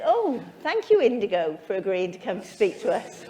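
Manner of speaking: a playful imitation of the guest's reply; quoting the guest. Host retelling the guest's email to the audience, mock-grateful. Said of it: "He said".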